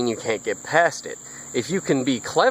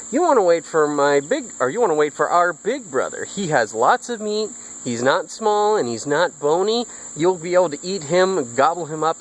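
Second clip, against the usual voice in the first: lightly voiced goat, pitched higher; persuasive middle goat; 4 semitones higher than usual. Middle goat sells out his big brother to troll, lightly voiced pleading. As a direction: plead and bargain in a slightly higher storybook voice.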